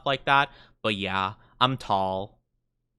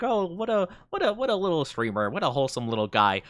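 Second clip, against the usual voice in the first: mock sweet viewer; 4 semitones higher, faster than usual. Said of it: "This one over here is like".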